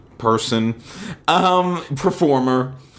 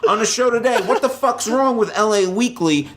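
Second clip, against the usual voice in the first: lingering Liotta voice; 8 semitones higher than usual. Acted. Carrying the Liotta voice into rundown.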